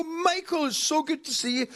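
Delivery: gushing greeting. Retold or imitated. Actor greets old producer friend, gushing and high. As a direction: squeal his name with delight. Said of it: "I go".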